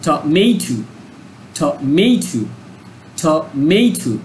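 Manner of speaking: টমেটো with the MA syllable pressed; stress on MA. Shown as a demonstration. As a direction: punch the middle MA of টমেটো. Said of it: "আমার সাথে practice করো".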